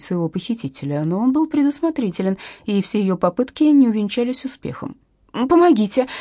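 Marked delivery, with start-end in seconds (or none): 5.5-6.1 high, loud cry for help; kidnapped Irina screaming for help. A narrator's reading. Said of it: "завопила Ирина как можно громче".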